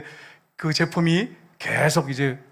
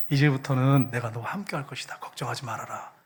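low reassurance sinking to a whisper; lightly voiced God, hushed at the end; inner voice of God; 5 semitones lower than usual. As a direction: reassure in a low voice, fading away. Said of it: "음성이 딱 들리는데".

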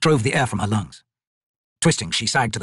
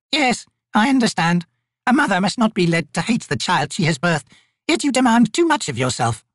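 ancient raven spirit; 10 semitones higher, 3 dB louder than usual. Acted. Raven Crone counselling the grieving Maibi, high and solemn. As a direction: speak like a wise ancient bird.

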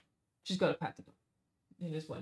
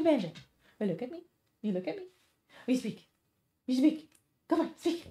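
pet talk; 10 semitones higher than usual. Real, not acted. Urging her dog to say hi to chat, high pet voice. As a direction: coax the dog to speak in a high cooing voice.

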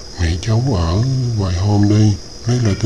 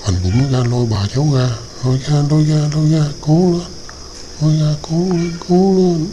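building louder and higher with each pull; heave-ho urging; 6 semitones higher, 4 dB louder than usual. Acted. Hunter urging the girl to pull grandma out, rising to a loud, high cheer. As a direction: chant the effort like pulling a rope.

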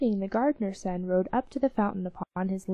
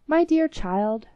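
king to daughter; 6 semitones higher, 5 dB louder, slower than usual. A narrator's reading. King addresses his daughter.

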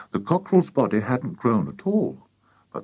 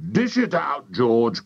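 eager, higher order; excited cry; 5 semitones higher, slower than usual. A narrator's reading. Mister Cranky hurrying George, excited cry. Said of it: "cried Mister Cranky".

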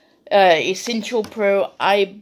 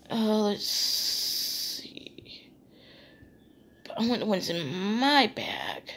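whispering; 2 semitones higher, 6 dB quieter, slower than usual. Real, not acted. Searching through bag, muttering aside.

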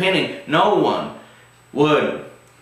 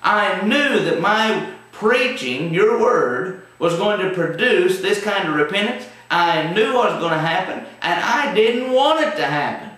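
complaining Jonah; 6 semitones higher than usual. Retold or imitated. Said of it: "He says".

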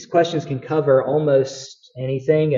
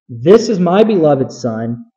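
voice from heaven; 5 dB louder than usual. Acted. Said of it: "A voice came out of the cloud saying".

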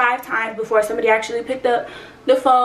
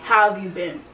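low-key, casual imitation; nonchalant; 3 semitones lower than usual. Father greeting his long-lost child, nonchalant imitation. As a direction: ask it like it's no big deal. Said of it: "he was just so nonchalant".

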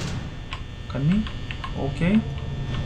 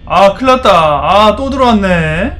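panicked; 2 semitones higher, 7 dB louder, slower than usual. Real, not acted. Animatronic came in again.

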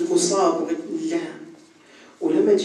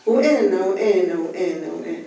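self-centred interrupting. Retold or imitated. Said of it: "تحكي على نفسك".

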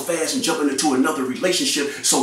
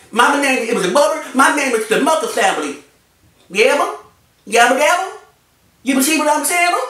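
higher, louder mush-mouthed mock voice; mouthful-of-cornbread impression; 10 semitones higher, 5 dB louder, faster than usual. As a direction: garble the words like a mouthful of cornbread. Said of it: "every time you talk, you got a, a mouthful of cornbread".

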